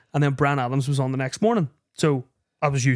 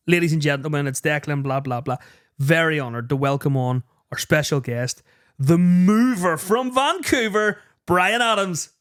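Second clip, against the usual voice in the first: mock announcer intro. Mock radio intro of guest.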